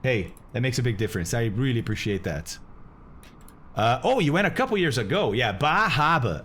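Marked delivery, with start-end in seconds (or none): 5.3-6.4 slow attempt at a Maine accent, Bar Harbor drawn out; self-conscious try at a Maine accent. Shown as a demonstration. Slow Maine accent for his stream chat. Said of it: "I can't do the accent that well".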